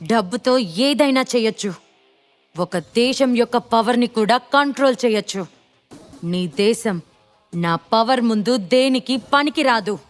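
arrogant attitude. Acted. Gentil boasting to Shiva that money controls everything, arrogant. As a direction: brag about your power with moneyed arrogance.

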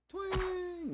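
high, drawn-out twang; long high "twaaang" sound effect; imitated bowstring twang. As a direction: mimic an arrow loosed, ringing on high. Imitates bow shots in game.

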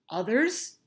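rising surprised question. Acted. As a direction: catch on, puzzled. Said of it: "asked Stanley".

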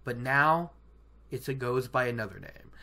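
lightly voiced solemn guide; solemn storyteller. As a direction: intone it gravely, falling away at phrase ends. Acting Moiraine's solemn lore.

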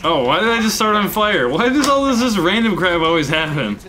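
high-pitched, incredulous griping; exasperated complaint. Real, not acted. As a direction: complain upward at the unfairness of it. Complains about random game mishap.

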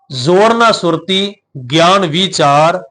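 ਵਿਚਾਰ said with the long ee vowel, as ਵੀਚਾਰ. Shown as a demonstration. Preacher recites the verse slowly, showing the long ee in ਵਿਚਾਰ. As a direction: stretch the ee in ਵਿਚਾਰ. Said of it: "ਆਪਾਂ ਬਿਹਾਰੀ ਨਾਲ ਉਚਾਰਨ ਕਰਾਂਗੇ".

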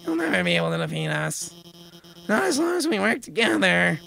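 bold heroic voice. Acted. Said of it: "comes in with a heroic voice".

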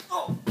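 faked pain yelp. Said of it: "Sorry, guys, I faked it".

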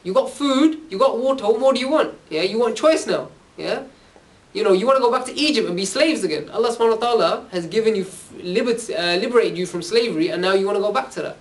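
preacher voicing Musa's angry reproach; angry rebuke. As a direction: scold them like a frustrated prophet. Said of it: "Musa got so angry".

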